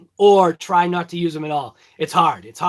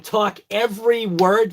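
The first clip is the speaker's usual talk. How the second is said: talking every word. Shown as a demonstration. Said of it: "that's literally talking every word".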